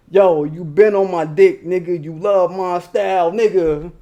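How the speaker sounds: lightly channel a famous rapper, laid-back and cool. Retold or imitated. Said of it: "in my rapper voice".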